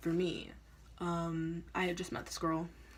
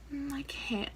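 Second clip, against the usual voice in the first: friend refusing; 7 semitones higher, slower than usual. Retold or imitated. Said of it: "And she's like".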